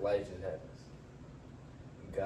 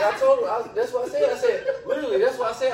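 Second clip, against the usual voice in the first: laughing; 12 semitones higher, 9 dB louder than usual. Real, not acted. Laughing while retelling.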